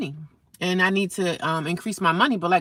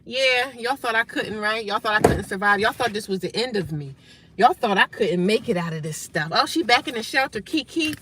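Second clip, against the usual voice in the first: gloating taunt. Retold or imitated. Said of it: "smile right in their face and say".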